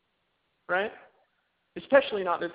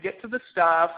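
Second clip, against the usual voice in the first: mock impatient listener; 7 dB louder than usual. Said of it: "rolling your eyes, saying".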